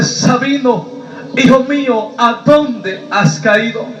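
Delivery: drawn-out, grave call from God; preacher voicing God slowly; solemn divine voice. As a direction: call out to a fallen son, stretching the question. God's voice calls him by name.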